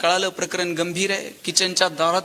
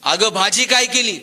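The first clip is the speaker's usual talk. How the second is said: a mild call from the doorway, only slightly louder; 4 dB louder than usual. Retold or imitated. Husband calls to his wife from the front door, mild call. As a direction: call out casually to his wife in the next room. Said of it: "यानं दारातूनच आवाज दिला".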